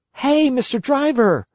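high puppet voice, calling out; a wooden puppet crying out; jerky creaky wooden puppet. Acted. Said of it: "cried the Marionette".

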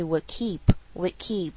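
"would keep" without the d of "would"; "would keep" with the d swallowed; dropped d. Shown as a demonstration. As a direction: slide from "would" into "keep", leaving out the d. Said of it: "你要省略它也是没有关系".

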